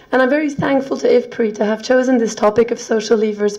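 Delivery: hoarse, croaky lost voice; speaking through a croaky throat. Real, not acted. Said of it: "bear with my croaky voice".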